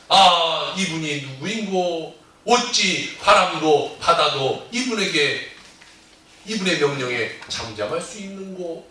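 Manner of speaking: put-on slow, old-fashioned musing in awe; drawn-out wondering question; awed archaic wonder. Disciples asking among themselves who this man is, awed.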